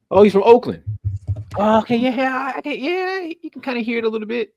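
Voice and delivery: high, bright oh of discovery; light up as it clicks; sudden realization. Real, not acted. Reading up on the director, suddenly gets it, surprised.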